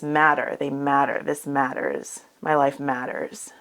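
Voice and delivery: each "matter" weighted, low and deliberate; quiet insistence on the word "matter"; stress on matter. Shown as a demonstration. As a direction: land firmly on "matter" every time.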